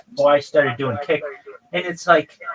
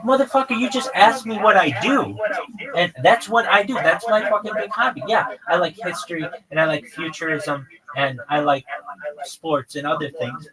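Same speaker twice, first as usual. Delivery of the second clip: snapping back at a moderator who just asked about hobbies; exasperated retort; 3 semitones higher than usual. Retold or imitated. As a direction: blast them with it like you've had enough.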